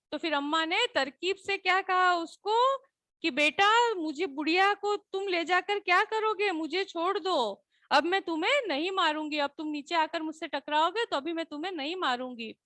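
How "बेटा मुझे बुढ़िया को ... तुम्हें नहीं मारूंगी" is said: lovingly persuading the sky; coaxing sweetly. Shown as a demonstration. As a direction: sweet-talk him into letting go. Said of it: "इस तरह से प्यार से अम्मा कह रही है".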